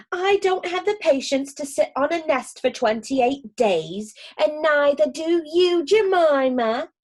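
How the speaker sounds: a bossy sister duck, voiced lightly and a bit brighter in pitch. Sister Rebecca scolds Jemima.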